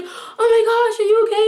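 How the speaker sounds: high, surprised friend's concern, mimicked. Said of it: "And she was like".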